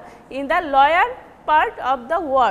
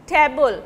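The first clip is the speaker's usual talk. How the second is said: "table" with a strong first syllable and falling end; first-syllable stress. Shown as a demonstration. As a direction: hit the start of "table". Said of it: "the first syllable is stressed".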